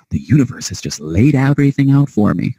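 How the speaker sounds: funny mock voice. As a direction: put on a silly trusting voice. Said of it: "I said that kinda funny".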